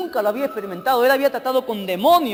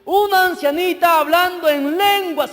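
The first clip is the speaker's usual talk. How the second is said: high, loud, drawn-out fury; acted wrathful demon's cry; enraged demon shouting; 7 semitones higher, 6 dB louder, slower than usual. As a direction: spit out hatred in slow, loud shouts.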